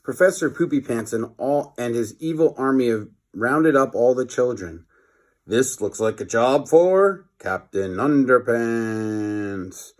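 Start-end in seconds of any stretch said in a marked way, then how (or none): 5.4-9.9 slow, heroic proclamation; superhero announcement. Acted. Captain Underpants announces himself, heroic. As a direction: boom it out like a cartoon hero.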